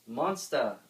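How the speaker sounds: loud cheering call; gleeful cheer for their creation. A narrator's reading. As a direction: cheer it out together. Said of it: "they all cheered together".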